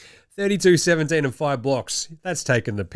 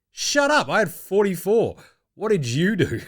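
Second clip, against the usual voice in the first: sharp, much higher snap that calms down by the end; indignant comeback; 5 semitones higher than usual. Retold or imitated. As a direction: fire it back like a proud star who got heckled. Maxey snaps back at heckler.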